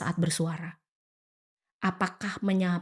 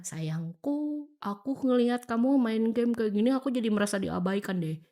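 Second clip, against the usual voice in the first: tender plea. Retold or imitated. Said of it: "pada saat duduk sebelahnya".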